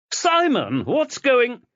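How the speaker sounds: high, scared question; frightened. Acted. Wife scared as her husband runs out, high and alarmed. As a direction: break off in fear.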